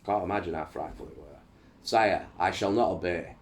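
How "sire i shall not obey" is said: dramatic history read-aloud with emphatic line openings; book narration. A narrator's reading. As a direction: read it out like a storyteller.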